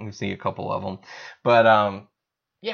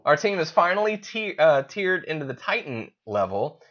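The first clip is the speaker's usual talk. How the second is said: excited; 8 semitones higher than usual. Real, not acted. Excited about pulling Titans.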